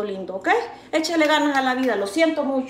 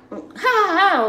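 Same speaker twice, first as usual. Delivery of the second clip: short laugh; 6 semitones higher, 3 dB louder, much slower than usual. Real, not acted. Laughing after gossip quote.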